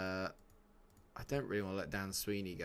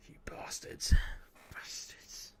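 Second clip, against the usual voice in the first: whispered mock-outraged curse; Sean Bean; slower than usual. Streamer finding chat gossiping about him, whispered mock outrage. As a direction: whisper it like a betrayed film hero. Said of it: "my inner Sean Bean was coming out".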